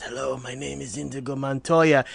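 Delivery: barely gets the words out, exhausted; quiet, drained. Retold or imitated. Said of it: "summons the strength and says".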